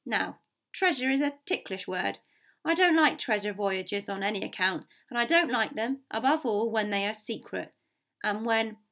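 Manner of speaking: stern captain, lifted above the narration; lightly voiced blunt captain stating grievances; blunt sea captain. Captain objects to the squire's secret treasure voyage, blunt. Captain airs his complaints.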